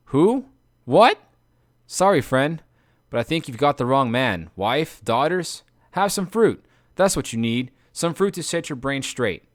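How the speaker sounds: high, muddled and breezy; lightly voiced lotus-dazed man; dazed confusion. Eurylochus to Odysseus, befuddled and breezy.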